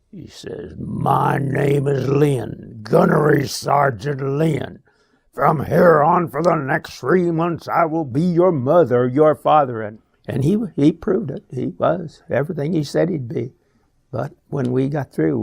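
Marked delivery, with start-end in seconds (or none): 0.8-9.8 slow, loud drill sergeant bark; Lynn's deep gravelly voice. Retold or imitated. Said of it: "in a real deep, gravelly voice".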